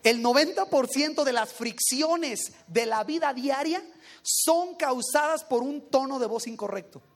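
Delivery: lento, marcando noventa; relectura enfática. Shown as a demonstration. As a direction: subraya cada palabra de la cita. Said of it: "Te lo voy a volver a leer". (relee la cita lento, con énfasis en noventa)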